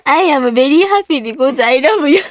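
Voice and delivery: slow katakana English, word by word; beginner's Japanese-accented English. Acted. Host reading a congratulation letter, slow Japanese-accented schoolroom English. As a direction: plod through English with Japanese vowels. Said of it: "中学一年生レベルの英語で".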